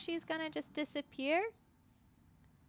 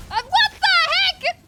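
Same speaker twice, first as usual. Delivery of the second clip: surprised; 13 dB louder than usual. Real, not acted. Game surprise.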